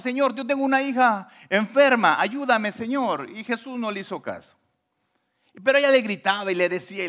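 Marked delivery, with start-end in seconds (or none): 0.0-3.3 higher, mildly raised pleading call; imitated crying out. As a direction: retell a mother begging aloud for help. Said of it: "Y le gritaba y le gritaba". (imitando un grito de súplica)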